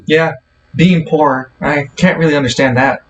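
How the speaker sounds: dry, mock-sympathetic tone; sarcastic. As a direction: say it with heavy sarcasm. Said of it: "She says sarcastically".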